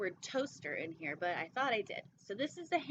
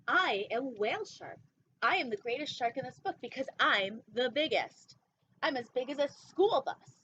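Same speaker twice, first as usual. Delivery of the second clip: louder, proud booming giant shark; a lightly voiced bragging whale shark, louder; boastful whale shark; 4 dB louder than usual. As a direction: boast like the biggest fish on earth.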